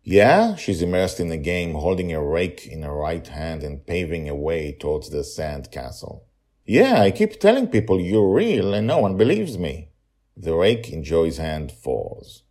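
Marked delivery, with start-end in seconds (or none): 0.0-0.6 put-on child voice. Joy answers distracted. 6.7-9.9 put-on child voice.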